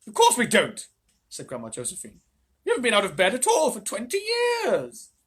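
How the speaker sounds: high, loud indignant granny; old woman voice. Acted. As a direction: answer like a cross old lady. Grandma voice.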